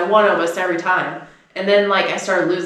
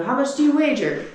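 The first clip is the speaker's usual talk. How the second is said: put-on kid quizmaster; 7 semitones higher than usual. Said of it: "he'll go".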